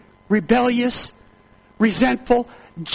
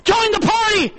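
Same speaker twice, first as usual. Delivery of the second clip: lightly voiced father, high and loud, coaxing; a hint of the father urging his son inside; pleading father; 12 semitones higher, 3 dB louder than usual. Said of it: "He says".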